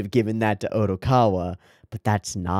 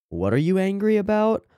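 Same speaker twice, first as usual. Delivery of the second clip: baffled high squeak; 12 semitones higher, 3 dB louder than usual. Retold or imitated. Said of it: "He's like".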